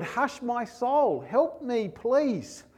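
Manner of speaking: slow, tender plea; gentle prayer. Pretend. Believer asking God to hush their soul, slow and tender. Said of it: "say your word".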